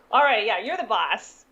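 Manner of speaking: lightly put-on New Jersey accent; a hint of mock New Jersey tough talk; imitated Jersey accent. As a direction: playfully imitate a little kid's Jersey accent. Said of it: "talking in this intense Jersey accent".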